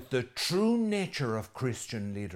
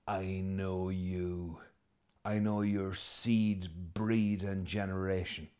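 slow, low-key, knowing accusation; slow menace; 3 semitones lower, 3 dB quieter, slower than usual. Retold or imitated. Jesus telling the crowd he knows them, slow and knowing. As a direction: spell out each word as a quiet threat. Jesus confronting Jerusalem's people.

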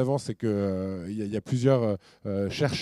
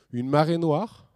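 marée noire lifted higher and louder in mock delight; mock cheerful; 5 semitones higher, 5 dB louder, slower than usual. Speaker mocking GDP logic to the audience, mock cheerful. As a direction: sell Une marée noire as if it were good news. Ironic praise of the oil spill.

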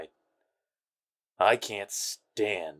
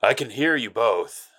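irritated, a little louder; annoyed; 3 semitones higher, 6 dB louder than usual. Acted. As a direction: snap back, fed up. Overheard insult, annoyed retort.

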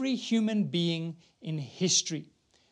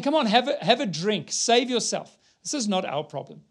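mocking soldiers voiced; 3 semitones higher than usual. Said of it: "The soldiers mocked him".

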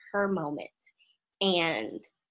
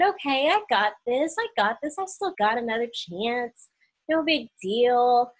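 higher-pitched retold self-encouragement; confident pep talk; 5 semitones higher, 3 dB louder than usual. Woman thinking she has another chance, upbeat. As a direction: psych yourself up, light and upbeat.

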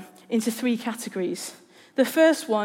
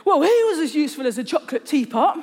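a retold exasperated yell, half-hearted and a touch higher; mock yell; 4 semitones higher than usual. Friend venting about an unhelpful receptionist, mock yelled. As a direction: fling out the insult in mild frustration. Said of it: "they yelled".

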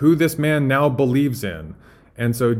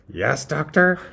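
higher, questioning henchman voice; Igor; 4 semitones higher than usual. Acted. Assistant awaits the doctor, high and questioning. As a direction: answer warily, tune rising. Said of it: "imagine Doctor Frankenstein and Igor".

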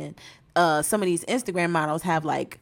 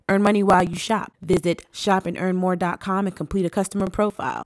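sponsor ad read. Acted. Reads the sponsor ad.

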